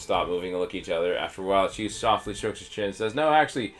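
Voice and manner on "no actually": higher, louder goblin objecting; lightly voiced goblin, raised. Goblin corrects the others about the cook, higher and louder.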